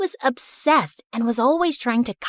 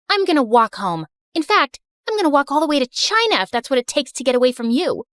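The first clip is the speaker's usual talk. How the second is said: furious rant; 3 semitones higher, faster than usual. Acted. Daughter storming away from her mother, fast angry rant. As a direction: rattle it off in a storm of anger.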